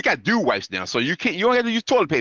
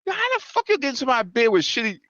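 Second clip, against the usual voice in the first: mock angry rant; 13 semitones higher than usual. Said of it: "looking madder and madder as I say".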